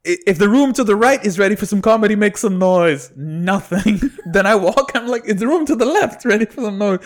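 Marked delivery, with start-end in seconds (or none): 0.1-3.1 quick, higher-pitched crowd work; hype MC call. Retold or imitated. Host working a split room, imitated hype call. 5.2-7.0 higher-pitched call to the crowd; hype MC call. Retold or imitated. Host trying the room to the left, imitated hype call. Host tries other side.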